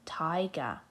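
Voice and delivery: whispered "tiger". Shown as a demonstration. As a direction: breathe "tiger" softly. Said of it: "Have a go at saying tiger".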